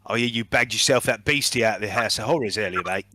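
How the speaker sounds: lightly voiced chummy mercenary; a hint of a matey hired gun; mercenary character. Mercenary greets a fellow fighter, lightly voiced and matey. Game master voices Trek.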